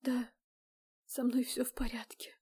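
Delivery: choked, breathless whisper; ошеломлённый сдавленный шёпот; strangled whisper. A narrator's reading. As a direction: barely whisper it, shaken. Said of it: "сдавленно прошептала".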